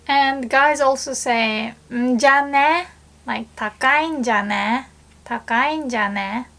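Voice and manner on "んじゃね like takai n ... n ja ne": casual, rough male tone on "Takai n ja ne?"; rough mock guy talk; rough guy speech. Shown as a demonstration. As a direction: toss it off like a blunt guy. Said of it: "it sounds rough".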